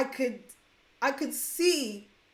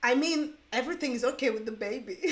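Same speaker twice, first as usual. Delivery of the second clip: put-on German accent. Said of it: "In a very strong German accent".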